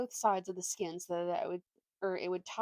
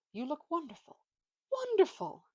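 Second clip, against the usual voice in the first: second wonderful flung much higher and louder; gushing ape; 9 semitones higher, 4 dB louder than usual. A narrator's reading. Crafty ape flattering the donkey in the lion skin, gushing.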